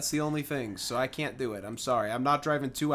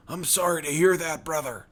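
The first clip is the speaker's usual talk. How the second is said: lightly voiced redneck sympathizer; a hint of wrestler, offering sympathy; Hulk Hogan. Redneck consoling a tired worker, light Hogan-style voice. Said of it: "sounds like his voice is like Hulk Hogan".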